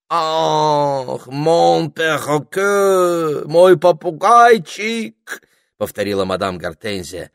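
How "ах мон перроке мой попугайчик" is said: put-on high, gushing French accent, very drawn out; французский акцент. A narrator's reading. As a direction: coo loudly over a pet in a French accent. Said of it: "с сильным французским акцентом". (протяжно и восторженно, с французским акцентом)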